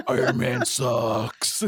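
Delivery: loud, drawn-out mock taunt; Lego Batman. Co-host mimics a cartoon Batman mocking a rival hero, loud taunt. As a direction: belt it out slowly as a brash cartoon hero. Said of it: "like, Lego Batman".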